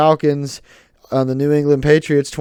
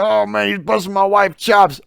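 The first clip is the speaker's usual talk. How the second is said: laughing Will Smith; 6 semitones higher than usual. Retold or imitated. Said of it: "he's like".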